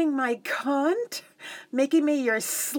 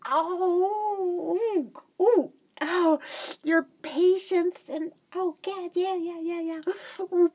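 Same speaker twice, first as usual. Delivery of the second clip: breathy moaning; 5 semitones higher than usual. Acted. Moaning near climax.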